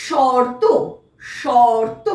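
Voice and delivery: careful teacher's শর্ত, r before t; model pronunciation. Shown as a demonstration. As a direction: say শর্ত with র sounded just before ত. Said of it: "এর উচ্চারণটা হবে".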